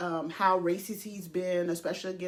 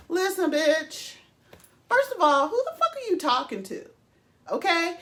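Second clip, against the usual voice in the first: mock fired-up retort; 8 semitones higher, 4 dB louder than usual. Firing back at Sharon.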